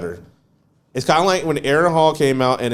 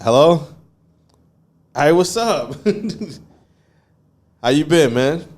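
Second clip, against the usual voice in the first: fake voicemail greeting; slower than usual. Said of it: "I was like".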